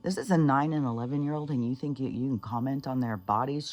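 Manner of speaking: mildly heated, quick scolding; imitated angry telling-off. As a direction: lightly act out a mother going off on someone. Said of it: "She went off on him".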